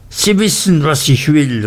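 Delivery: the aunt seizing him by the collar, crying out; fierce cry. A narrator's reading. Aunt gripping Uriah's collar and demanding her fortune, fierce cry. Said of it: "rief sie".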